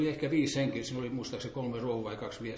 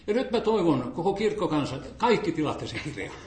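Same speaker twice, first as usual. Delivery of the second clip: retold eager appeal; 3 semitones higher, 6 dB louder than usual. Pastor urging the congregation.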